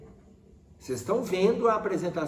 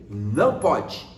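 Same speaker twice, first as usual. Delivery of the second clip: stern reprimand; 6 semitones lower, 3 dB louder, slower than usual. Shown as a demonstration. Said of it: "eu fecho a expressão facial".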